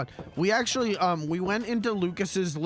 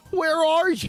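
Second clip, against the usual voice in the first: very high, shrill, hyped clown-mode holler; 10 semitones higher, 6 dB louder than usual. Replaying how the earlier question was said: imitating own amped-up clown mode. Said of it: "The way that I said that, though, was".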